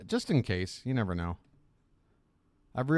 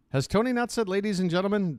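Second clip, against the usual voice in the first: mock surprise; 8 semitones higher than usual. Real, not acted. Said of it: "mock surprise at host".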